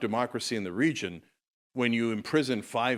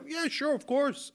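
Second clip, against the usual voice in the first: emphatic agreement; 14 semitones higher, 3 dB quieter, slower than usual. Real, not acted. Conceding to a rehabilitated prisoner.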